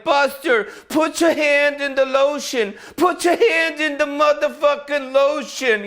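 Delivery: high, slow creepy killer voice; creepy Buffalo Bill. Retold or imitated. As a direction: coax it like a menacing captor. Buffalo Bill line to dog.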